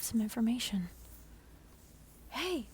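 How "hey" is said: 1 whispered mock shout. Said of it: "you shout at the truck".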